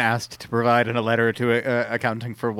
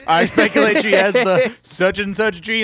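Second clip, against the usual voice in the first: a slightly higher little voice; 6 semitones higher, 4 dB louder than usual. Retold or imitated. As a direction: imitate his small put-on voice. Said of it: "in that little voice that he was doing".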